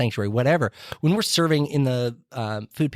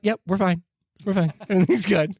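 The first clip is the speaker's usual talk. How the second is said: Jim Carrey impression; 7 semitones higher than usual. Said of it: "You're like Jim Carrey".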